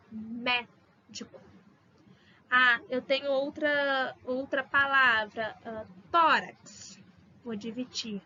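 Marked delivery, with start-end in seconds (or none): 0.1-1.4 "Médico" very slow and soft, "Mé" leaned on; slow stressed médico. Shown as a demonstration. Teacher modelling the word one last time. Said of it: "tem que ter o acento no E". 5.6-7.0 "tórax" slow, "tó" stressed. Shown as a demonstration. Teacher introducing a new example word. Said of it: "Qual que é a mais forte?".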